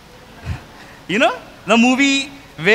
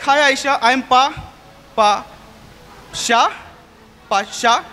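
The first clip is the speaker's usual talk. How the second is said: stammering nervously. Retold or imitated. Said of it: "suddenly felt deprived of words".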